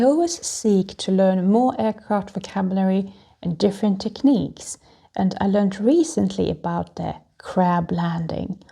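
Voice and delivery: hammy stage actor whispering; theatrical voice. Shown as a demonstration. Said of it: "That's why I'm using the special theatrical voice".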